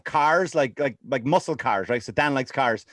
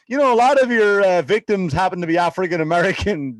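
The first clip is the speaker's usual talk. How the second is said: mock interviewer; 3 semitones higher, 3 dB louder than usual. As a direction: lightly put on an interviewer's voice. Acts out media interviewer's question.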